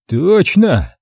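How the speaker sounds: lightly voiced thug agreeing; grudging agreement. A narrator's reading. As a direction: concede the point. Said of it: "согласился Хрипатый".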